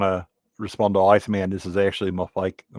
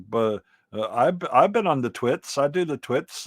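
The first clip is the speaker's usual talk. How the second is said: mock modern writer; 6 semitones higher than usual. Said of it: "now it's like".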